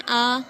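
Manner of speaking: आ as a simple open vowel without ain; straight plain vowel. Shown as a demonstration. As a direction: say आ straight from the mouth, no throat sound. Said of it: "इसको सीधा बिल्कुल पढ़ देते हैं". (आ को सीधा, आइन के बिना पढ़ें)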